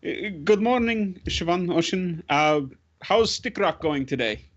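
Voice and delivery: put-on slow, lifted greeting to kids; friendly adult greeting children. Grudek waves to the kids at play, friendly greeting. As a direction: greet the little ones, drawn out.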